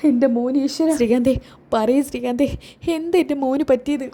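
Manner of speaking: mother's mock wailing; hammed-up tearful pleading; acted crying. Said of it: "അമ്മ ഇങ്ങനെ കരയില്ലേ".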